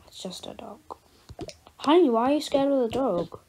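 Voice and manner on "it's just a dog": faint murmur. Acted. Repeated reassurance, very faint.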